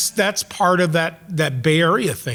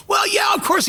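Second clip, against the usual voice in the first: much higher, dopey easy agreement; high naive agreement. Retold or imitated. Young hippie agreeing with his cynical friend, high naive. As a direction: agree like a starry-eyed hippie. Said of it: "I go".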